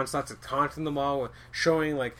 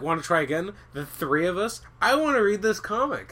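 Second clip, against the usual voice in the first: eager pleading; 8 semitones higher, 7 dB louder than usual. Retold or imitated. Acting out a pushy friend.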